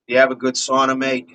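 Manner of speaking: casual, lightly put-on Australian accent; a rough stab at Australian; Aussie accent. Shown as a demonstration. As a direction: try out a loose Aussie accent. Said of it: "Might be a bit of my Aussie".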